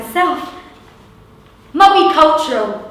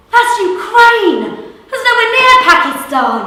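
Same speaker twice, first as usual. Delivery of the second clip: laughing disbelief; 10 semitones higher, 7 dB louder than usual. Real, not acted. Mocking the thug's geography.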